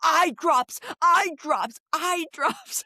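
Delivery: repeated mock calling. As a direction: keep calling it out over the distance. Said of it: "she pantomimes with both hands".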